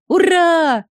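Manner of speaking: high, loud, joyful yell; child's cheer. A narrator's reading. Little boy yelling for joy that papa's better, loud. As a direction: shout it like a jumping kid. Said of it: "завопил мальчишка".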